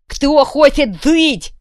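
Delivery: slow, high, loud demand; menacing shout. Acted. Kuvalda asking the crowd, loud and slow. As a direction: hold them with a roar.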